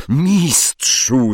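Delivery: pained cry to master; howl. A narrator's reading. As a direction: wail for help. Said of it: "zawył Quirrell". (bolesne wycie)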